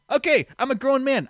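high, loud self-talk; retold panicked resolve. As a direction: psych yourself up, acting it out. Acts his panicked self-talk.

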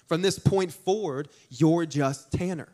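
lightly voiced stern mother; measured, no-nonsense scolding; stern talking-to. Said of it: "she gave me a stern talking to".

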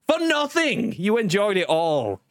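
high, slow voice-changer effect; demonic double voice. Pretend. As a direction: cackle it through the voice mod. Voice mod effect on.

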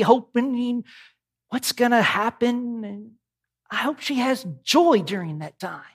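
lofty, solemn prayer voice; dignified preacher voice. Pretend. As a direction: pray like a pompous preacher. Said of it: "in my most dignified preacher voice".

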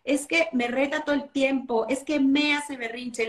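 mock complaining mother; a hint of a whining parent; whiny mom. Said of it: "luego así hablan en Monterrey".

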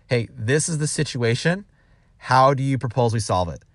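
calm, even-toned question. Shown as a demonstration. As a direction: put it to the employee calmly. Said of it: "just really calmly say".

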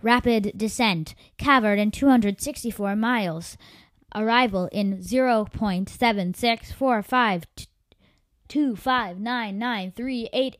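slow, loud machine announcement; automated voice. Acted. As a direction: read it like a cockpit computer. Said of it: "an automated voice cried".

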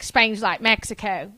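slow, slurred mock-redneck accent; drawled, mumbled redneck Southern accent; redneck guy. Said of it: "the guy who was like".

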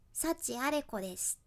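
nose pinched shut with fingers. Shown as a demonstration. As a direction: say it holding your nose closed. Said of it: "こんな感じ".

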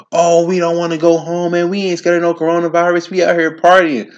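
high mocking party-goer voice; mock rowdy partier yelling at cops. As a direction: mimic a rowdy reveler.

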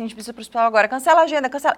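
mildly urgent retold doctor's orders; a touch of alarm, pressing; retold panic. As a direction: quote a doctor rattled into urgency. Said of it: "Ele ficou tão em pânico, o médico".

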